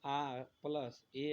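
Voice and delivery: आ plus ए said very slowly, each vowel drawn out; patient teacher spelling vowels; slow vowel demo. Shown as a demonstration. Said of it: "ऐ का निर्माण करना होगा".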